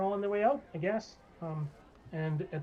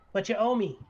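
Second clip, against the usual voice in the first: raised, slow booming boss; 8 semitones higher, 4 dB louder than usual. Acted. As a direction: demand payment slowly in a higher, booming voice. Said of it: "it's a really loud, booming voice".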